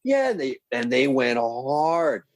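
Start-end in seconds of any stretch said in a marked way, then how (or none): 0.0-0.3 excited yeah. Retold or imitated. Hyped crowd reaction retold.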